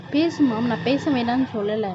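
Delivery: snapping back. Acted. Daughter snaps at mother.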